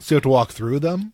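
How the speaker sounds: chewing between words; crunching candy corn. Real, not acted. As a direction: mouth full of candy. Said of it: "don't mind the crunching".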